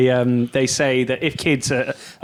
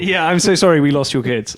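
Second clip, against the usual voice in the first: put-on Nigerian accent; 2 semitones higher than usual. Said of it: "put that in a Nigerian accent as I did it".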